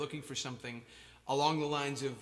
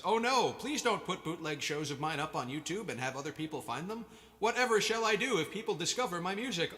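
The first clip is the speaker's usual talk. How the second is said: sarcastic fake panic, rising higher at the end; mock alarm; 5 semitones higher than usual. Musician mocking fans sharing bootleg shows, sarcastic fake panic. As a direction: pretend horror at being discovered, hammed-up.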